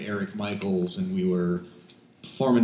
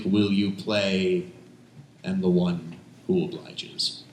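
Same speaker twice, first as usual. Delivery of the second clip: poem recitation. Acted. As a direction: lay out each image like a slam poem. Performs poem Double Act.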